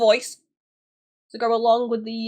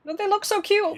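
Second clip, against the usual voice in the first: cooing; 10 semitones higher than usual. Real, not acted. Cooing over cute Pokémon.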